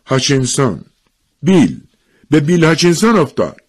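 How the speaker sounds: high, loud crowd exclamations; acted cries from a crowd; excited announcing. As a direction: burst out with the news. Crowd passes on the news.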